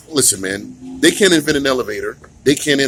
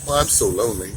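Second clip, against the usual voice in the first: mock lonely whine; 5 semitones lower than usual. Mocking a lonely governor.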